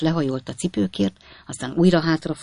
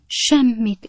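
higher-pitched, incredulous repetition; questioning echo; 7 semitones higher than usual. A narrator's reading. Lady repeats the intruder's answer looking up, questioning echo. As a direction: echo it high, doubting. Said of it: "ismételte a hölgy felpillantva".

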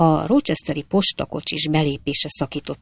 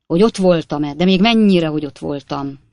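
brisk, choppy braggart voice, louder; boastful Jingle; 5 dB louder than usual. Acted. Stranger brushing off the coachman fight, boastful rattle. Jingle claims he was there.

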